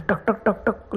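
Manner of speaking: soft, spaced-out knock sounds; quiet "tak tak" of a door knock; imitated knocking. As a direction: say the knocks softly, one by one.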